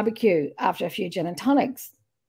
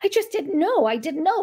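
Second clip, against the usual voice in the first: higher-pitched, uncertain protest; unsure; 5 semitones higher than usual. Retold or imitated. Louise's friend retelling her doubt, imitated unsure. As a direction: mimic someone unsure of herself. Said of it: "you know, unsure sometimes".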